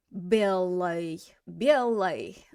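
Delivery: "Белой" slowly, stress on "Бе", ending reduced to "luy"; unstressed ой. Shown as a demonstration. Teacher answering how it's pronounced, reduced ending on "Белой". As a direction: draw out "Бе" and weaken the "ой". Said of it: "how do we pronounce that ой?".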